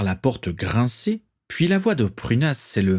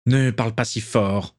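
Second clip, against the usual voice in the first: hoarse cough. Acted. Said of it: "toussota Abraxas Malfoy".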